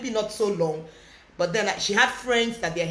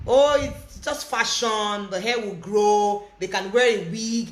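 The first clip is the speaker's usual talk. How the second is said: mock dismissive; slower than usual. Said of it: "what the school management was saying".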